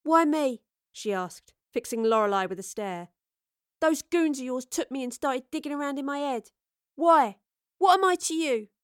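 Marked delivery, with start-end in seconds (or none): 0.0-0.6 higher-pitched indignant question; indignant demand. A narrator's reading. Astrid to Lorelei, fixing her with a stare, indignant. Captive confronts her kidnapper. 3.8-8.7 higher-pitched, agitated demand for answers; indignant confrontation. A narrator's reading. Astrid challenging Lorelei about her goons, indignant.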